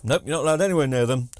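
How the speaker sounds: mock-officious quick refusal; moaning jobsworth. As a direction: imitate a grumpy worker turning someone away fast. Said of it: "looking for something to moan about".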